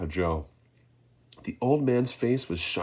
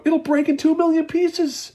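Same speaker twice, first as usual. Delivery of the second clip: high, loud panicked stammer; stammering shout; 9 dB louder than usual. A narrator's reading. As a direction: sputter in fear. Grandpa Joe panicking.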